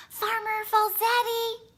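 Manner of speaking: calling out. Acted. A boy calling the farmer through the screen door. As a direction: call him from the porch.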